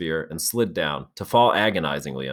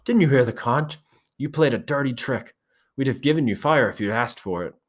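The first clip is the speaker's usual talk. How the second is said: much higher, angry accusing voice; blazing temper; 7 semitones higher than usual. A narrator's reading. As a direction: let the anger blaze out at him. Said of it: "Ralph's temper blazed out".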